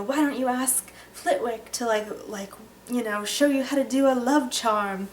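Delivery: a hint of a showy professor, lifted pitch; Gilderoy Lockhart. Introducing Valentine's Day at breakfast, lightly imitated Lockhart. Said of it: "and he's like".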